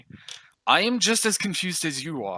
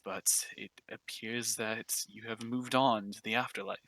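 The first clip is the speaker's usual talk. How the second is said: soft, unhurried welcome from a gentle middle-aged god; kindly god of death; 2 semitones lower, 5 dB quieter than usual. Acted. The god of death welcomes the new souls, softly and kindly. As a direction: greet the new souls softly, like a kind usher of the dead.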